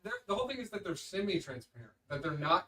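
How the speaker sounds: distant, off-mic voice; arguing from another room. Real, not acted. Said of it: "You're in the wrong room for the microphones".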